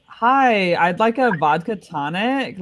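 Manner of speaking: mock California girl ordering a drink, slow; drawn-out valley girl order at a bar, California accent. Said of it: "you're more like those".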